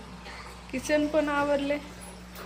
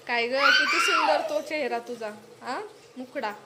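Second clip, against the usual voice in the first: laughing tease. Real, not acted. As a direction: tease her through laughter. Teasing child's soapy face. (हसत चिडवणे)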